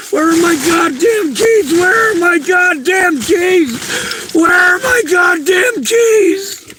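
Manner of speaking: losing it over lost keys; real frantic shouting. Real, not acted. Searching in the rain for her keys, real frantic shouting. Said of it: "I am trying not to freak out".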